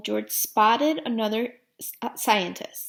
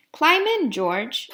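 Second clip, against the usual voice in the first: bright, higher and louder invitation; cheerful call; 3 semitones higher, 4 dB louder, slower than usual. Acted. The man in the yellow hat invites George in cheerfully. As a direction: call him into the van.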